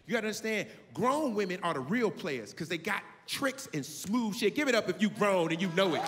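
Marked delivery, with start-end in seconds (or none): 4.5-6.0 loud call to the crowd, shouting. Real, not acted. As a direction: get the room to cheer.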